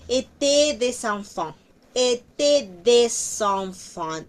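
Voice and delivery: "des enfants" linked as dezanfan; liaison demo. Shown as a demonstration. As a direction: link the s into "enfants". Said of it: "igual que aquí arriba". (enlace en "des enfants")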